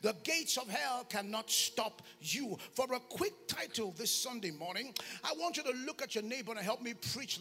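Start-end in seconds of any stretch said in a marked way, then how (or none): 0.0-2.6 slow, spaced-out scripture emphasis; deliberate preacher stating the key verse; solemn declaration. Real, not acted. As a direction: let each phrase land, unhurried.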